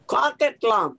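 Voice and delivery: Coquitlam pronounced carefully in the original way; original pronunciation. Shown as a demonstration. Speaker restoring a great-great uncle's name, Coquitlam carefully pronounced. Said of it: "changed all the names in our homes".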